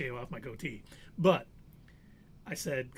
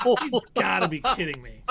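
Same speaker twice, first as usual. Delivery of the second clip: acted disbelief; 3 semitones higher, 9 dB louder than usual. Acts own disbelief at the test.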